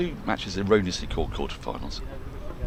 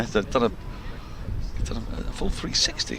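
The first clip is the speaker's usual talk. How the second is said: amused hushed aside; 2 semitones higher, 5 dB quieter, slower than usual. Real, not acted. Fielder rolling on ground.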